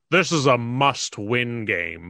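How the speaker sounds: slow announcer voice; mock sportscaster, dragged out slowly; Joe Buck impression. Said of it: "Joe Buck on game sevens will say".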